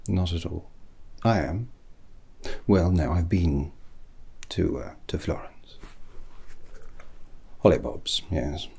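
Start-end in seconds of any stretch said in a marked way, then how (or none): 4.5-5.8 whisper. Acted. Sheepish admission.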